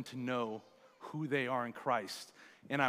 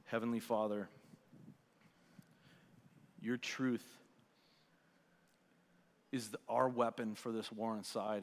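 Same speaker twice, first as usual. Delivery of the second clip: prayer; 3 semitones lower, 5 dB quieter than usual. Real, not acted. Leads the congregation in prayer.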